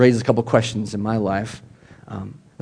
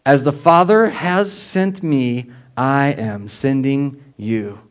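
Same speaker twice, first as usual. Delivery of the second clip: slow solemn words; slower than usual. Retold or imitated. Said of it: "he says these words".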